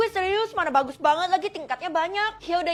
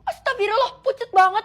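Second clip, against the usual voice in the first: shocked; 8 semitones higher, 7 dB louder than usual. Acted. Shocked at teacher's face.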